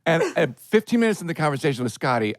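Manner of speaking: usual speaking voice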